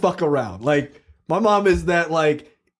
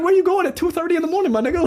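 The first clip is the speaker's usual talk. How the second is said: retold parent yelling; 12 semitones higher, much faster than usual. Parents arguing at 2:30 am.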